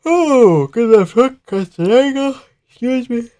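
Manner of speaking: very high-pitched amazed reaction; excited squeal. Real, not acted. Watcher amazed by the left hook, excited squeal. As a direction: squeal the call in high falsetto.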